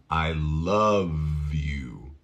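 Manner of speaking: very slow, low "I love you"; drawn-out "love" with buzzing V; slow model. Shown as a demonstration. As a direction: stretch "love you" for learners, softly. Teacher models phrase slowly.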